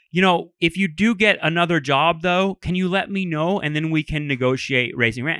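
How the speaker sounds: hand-wringing landlord. Retold or imitated. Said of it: "wringing his hands".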